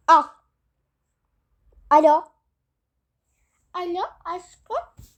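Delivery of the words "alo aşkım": much softer, slow coo; the other woman cooing at Ahmet; sultry mistress. Acted. Mistress calling husband. (yavaş ve alçak, cilveli)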